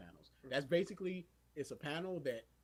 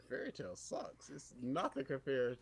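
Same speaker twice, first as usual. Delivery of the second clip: slow, quiet put-down; understated scorn, dragged out; dismissive; 3 semitones lower, 4 dB quieter than usual. Retold or imitated. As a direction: grumble it slowly and softly. Retold rival fan, first take.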